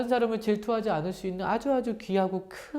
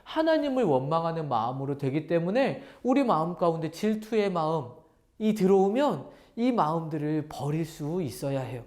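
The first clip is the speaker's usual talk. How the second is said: ordinary talk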